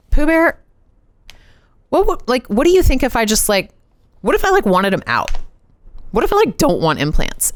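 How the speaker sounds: high, sweet pet-name voice easing into a question; high tentative sweet-talk to husband; sweet coaxing ask. Retold or imitated. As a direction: coax the husband gently, sugar-sweet. Gently raising cancelling surgery with husband.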